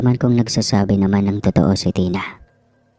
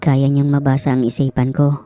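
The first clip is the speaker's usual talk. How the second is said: put-on higher-pitched child's voice, explaining; young Tina, owning up; 5 semitones higher than usual. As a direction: own up to an elder as a child. Voices young Tina confessing to Manang. (mataas na boses ng batang nagpapaliwanag)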